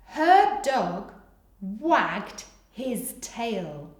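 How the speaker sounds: slow dictation. Shown as a demonstration. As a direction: pace it out for young writers. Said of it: "Pause whilst you finish".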